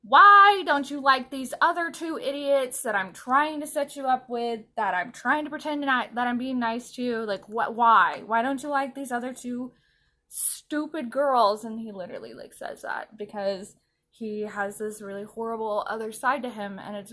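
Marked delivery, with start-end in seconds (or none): 0.0-11.6 loud opening, pleading frustration; hammed-up exasperation, dragging the last words; mock exasperated rant. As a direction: rant it, punching the whys. Acting out his exasperated rant.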